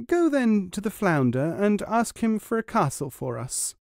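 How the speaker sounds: high, nagging wife's voice; complaining wife. A narrator's reading. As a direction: list every fault to wear him down. Wife complains about the cottage.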